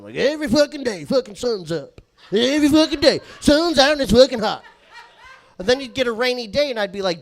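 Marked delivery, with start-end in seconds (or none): 0.1-4.6 high, loud redneck complaining; Jacob's redneck bitching. Retold or imitated. Coworker bitching about the sunshine, loud redneck gripe. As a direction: bellow the gripe like a redneck juggalo. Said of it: "he would bitch about the sunshine".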